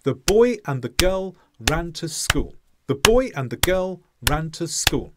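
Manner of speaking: put-on "boy", "girl", "ran", "school" on an even beat, "the" and "and" squashed; stress timed rhythm. Shown as a demonstration. Teacher showing English rhythm with equal gaps between stresses. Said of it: "like this".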